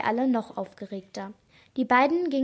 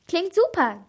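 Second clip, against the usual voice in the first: pleased, higher and louder; grinning; 6 semitones higher, 6 dB louder than usual. A narrator's reading. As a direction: say it through a grin. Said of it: "grinste ich". (grinsend, erfreut)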